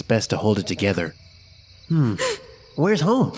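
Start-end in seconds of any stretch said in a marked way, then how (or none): 1.9-3.3 put-on high kid voice, thinking aloud; high, curious child voice. A narrator's reading. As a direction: wonder where he lives. Kid asks ghost boy.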